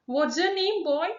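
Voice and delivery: high questioning gentleman; gentleman's voice. Acted. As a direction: read it as the stern gentleman. Teacher reading gentleman's line.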